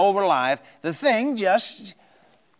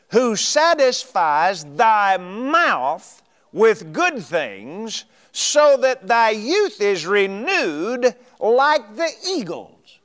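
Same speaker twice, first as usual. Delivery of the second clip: slow scripture reading; 2 semitones higher, much slower than usual. Acted. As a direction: draw the verse out slowly. Reading the psalm slowly.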